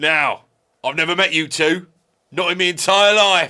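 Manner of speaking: loud, high troll voice. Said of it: "I had a serious leech infestation under my bridge".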